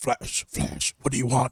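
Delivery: breathy, hushed superhero voice, breathed out. Riding your motorcycle, you take a call from the Flash, still using your Batman voice. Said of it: "Why are you still using the voice?".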